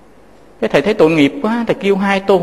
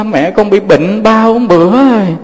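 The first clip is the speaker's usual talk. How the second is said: retold call; 3 semitones higher, 3 dB louder than usual.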